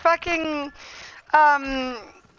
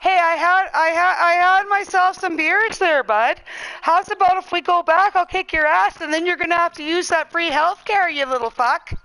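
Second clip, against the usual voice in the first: mock Canadian; 3 semitones higher than usual. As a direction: play the beer-soaked Canadian tough guy. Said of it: "here's a Canadian thing to say".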